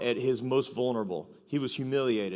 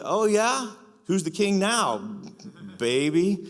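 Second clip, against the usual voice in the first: cocky gloat; 5 semitones higher, slower than usual. Pretend. Pastor imagining himself off the cross, cocky high gloating taunt. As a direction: crow over the mockers like a winner. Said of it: "I'm gonna be like".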